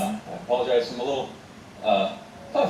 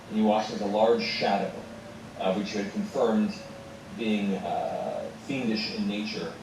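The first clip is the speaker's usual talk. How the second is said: measured scene-setting narration; storyteller's deliberate pacing; game master recap; 2 semitones lower than usual. Acted. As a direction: unfold the grim recap slowly and deliberately.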